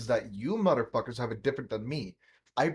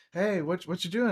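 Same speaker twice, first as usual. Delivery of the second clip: higher-pitched casual query; a touch of mom calling over; lightly voiced mother; 6 semitones higher than usual. Mother checking on her kid's yard work, lightly voiced mom. Acting out his mother pulling up.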